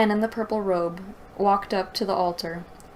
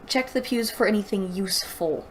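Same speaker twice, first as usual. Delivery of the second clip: mock rewrite suggestion. Shown as a demonstration. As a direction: show the author how it should read. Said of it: "Make it sound like".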